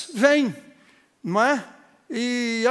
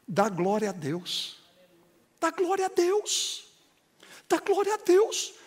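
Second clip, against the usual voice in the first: building praise; 7 semitones higher than usual. Retold or imitated. Pastor urging her to praise.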